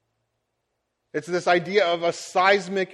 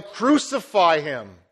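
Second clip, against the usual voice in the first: crowd yelling; 4 dB louder, slower than usual. Retold or imitated. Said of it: "They yell".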